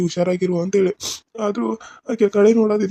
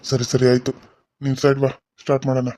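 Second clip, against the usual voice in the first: much lower put-on male doctor voice; man's voice; 8 semitones lower than usual. Disguised woman posing as the doctor speaks in a much lower man's voice. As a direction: drop the voice low to pass as the male doctor. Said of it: "ಅವ್ನ ಗತಿ ನಾನು ಮಾತಾಡ್ಬೇಕು".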